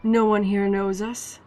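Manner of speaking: lightly put-on Irish accent. Lancer talking about their huge disadvantage, light Irish accent. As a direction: attempt a Jacksepticeye-like Irish voice. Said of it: "I have to imitate an Irish accent".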